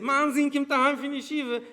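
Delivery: high, loud thick Hasidic Yiddish; the father's heavy Hasidic accent. Retold or imitated. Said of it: "with the thick Chassid".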